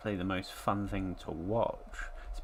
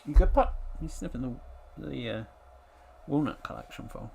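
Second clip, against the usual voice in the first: calling the dog; 3 semitones higher, 5 dB louder than usual. Real, not acted.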